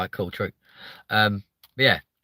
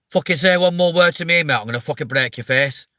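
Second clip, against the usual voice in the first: put-on northern English accent; 2 semitones higher, 4 dB louder than usual. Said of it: "still feels kinda romantic".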